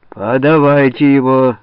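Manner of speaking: громкий, медленный приказной крик; потребуй пленника во весь голос. Acted. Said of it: "закричал Голова". (Голова кричит десятским: громко и медленно)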